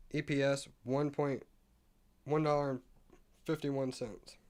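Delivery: words broken by hiccups; hiccuping. Real, not acted. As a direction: talk through the hiccups. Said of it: "sorry, I'm hiccuping".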